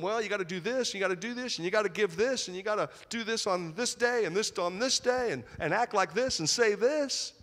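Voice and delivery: lightly voiced nagging rabbi listing rules; a hint of a preachy rabbi; mimicking rabbis. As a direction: tick off rules like a fussy teacher. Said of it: "rabbis that told them".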